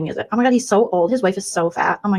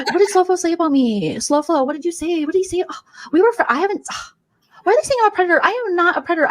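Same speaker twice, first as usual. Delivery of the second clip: higher, catty influencer voice; mocking streamer impression; 9 semitones higher than usual. Mocking a streamer in a bee filter, catty and higher. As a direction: spoof a vain livestreamer, higher pitched. Parody streamer reading chat.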